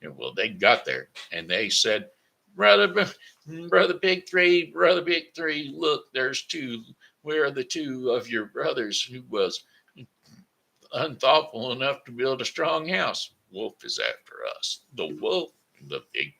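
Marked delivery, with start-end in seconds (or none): 2.5-13.3 high, loud piggy voice pleading; frantic little pigs. Acted. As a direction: beg brother pig in squeaky panic. Pigs plead to third brother.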